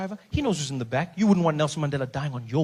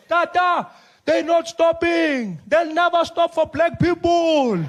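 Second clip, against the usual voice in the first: much higher, loud, slow pleading; panicked Spiwe; 10 semitones higher, 5 dB louder, slower than usual. Acted. Spiwe pleads with Mandela on the roadside, high and panicked. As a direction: wail it in panic.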